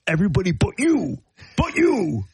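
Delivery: imitated grumbling colleague, rising on "but you". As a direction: lightly voice a coworker singling someone out. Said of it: "He's like".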